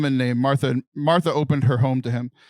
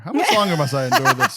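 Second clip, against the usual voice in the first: laughing; 3 semitones higher, 3 dB louder than usual. Retold or imitated. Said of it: "That's what he's saying".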